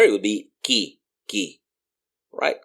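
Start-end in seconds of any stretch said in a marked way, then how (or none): 0.6-1.6 qui as "kee"; silent U. Shown as a demonstration. Teacher shows learners qui with the U mute, "kee". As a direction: qui with a plain k and no w. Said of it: "if there was an I here".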